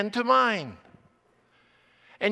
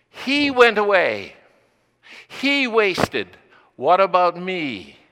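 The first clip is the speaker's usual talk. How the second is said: aggrieved complaint; 8 dB louder, slower than usual. Acted. Voicing the older son's grievance.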